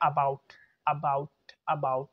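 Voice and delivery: "about" opening on a clear aa; full AA start. Shown as a demonstration. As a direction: say "about" as AA-bout. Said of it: "ये बोलते हैं हम आ से".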